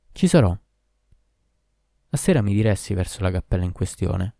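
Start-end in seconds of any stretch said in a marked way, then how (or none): 0.1-0.5 a quick eager yes, louder; eager promise. A narrator's reading. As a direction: commit to it at once. Hero accepts the dangerous task. (risposta decisa e impaziente, più forte)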